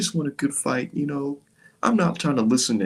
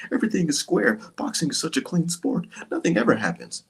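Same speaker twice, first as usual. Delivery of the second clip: mock naive fan. Mocking fans ignoring questions.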